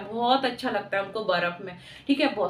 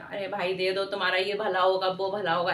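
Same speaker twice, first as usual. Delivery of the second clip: lower-pitched, coaxing beggar's plea; imitated loving plea; 5 semitones lower than usual. Teacher imitating a beggar asking for alms, coaxing. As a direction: lightly mimic a beggar asking kindly. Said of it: "बहुत प्रेम से मांगते हैं".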